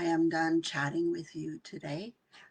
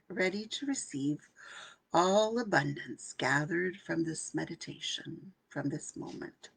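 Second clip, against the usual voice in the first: guided meditation affirmations. Acted. Coach leading her workshop group in meditation, hushed.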